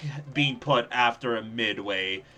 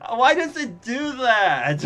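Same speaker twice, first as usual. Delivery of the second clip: frustrated; 10 semitones higher, 6 dB louder than usual. Real, not acted. Frustrated at game behaviour.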